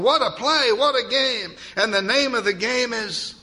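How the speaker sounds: high, loud, thrilled play-by-play shriek; shrieking announcer. A narrator's reading. Announcer shrieking to the crowd at the big play, high and loud. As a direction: scream it into the mic like a wild announcer. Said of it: "The announcer was shrieking into the microphone".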